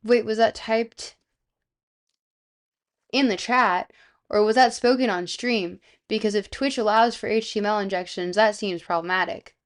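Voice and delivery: Canadian accent. Shown as a demonstration. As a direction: do a deliberate, emphatic Canadian accent. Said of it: "I have to do a Canadian accent".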